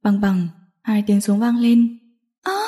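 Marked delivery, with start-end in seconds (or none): 2.4-2.6 short high acted shriek; brief startled cry; scream. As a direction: shriek sharply at the gunshot. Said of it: "Diệu Tinh hét lên".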